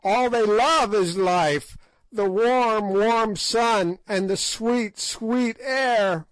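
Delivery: high cackling hag, laughing through the words; shrill witch's laughter mixed into speech; ghastly merriment. A narrator's reading. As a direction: gloat and cackle over the dark. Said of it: "writhed in ghastly merriment".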